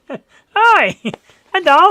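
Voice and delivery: put-on high, loud Asian accent greeting; a giggly Asian accent hello. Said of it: "I shouldn't do the Asian accent".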